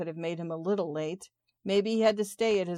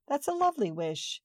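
much higher, a strange relish in it; eerie delight; 7 semitones higher than usual. Acted. Woman alone imagining her lover dead, eerily delighted. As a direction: savour the dark thought, lifted high. Sudden turn after terrible wish.

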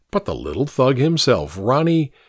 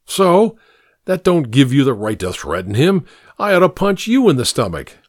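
irate father threat. Acted. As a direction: threaten him like a furious dad.

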